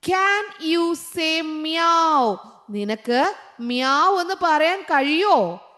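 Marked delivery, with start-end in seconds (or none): 0.1-2.4 the whole question drawn out very slowly in one breath; slow read-aloud. Shown as a demonstration. Teacher reading the answer sentence to pupils, very slow and smooth. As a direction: let the question flow out slowly.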